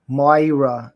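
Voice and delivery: slow New York accent on "Moira", drawn out with a falling end; "When Moira" stretched out in a mild New York accent. Shown as a demonstration. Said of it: "I have to do a New York accent to do her name right".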